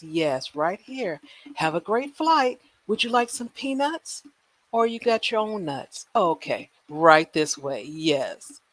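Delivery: lightly voiced cheery boarding attendant; a hint of a flight attendant welcoming boarders; playful airline gate agent. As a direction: usher the passengers on like a flight crew.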